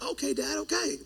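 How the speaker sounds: small, soft mock-child reply; imitating a cowed kid, hushed; placating kid. Kids placating their yelling dad.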